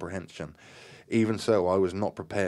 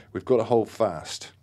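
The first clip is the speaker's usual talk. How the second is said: louder, higher rallying call; yelled order; 4 semitones higher, 7 dB louder than usual. A narrator's reading. Graham rallies the séance circle, yelling. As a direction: yell to rally the group. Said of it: "Graham yelled".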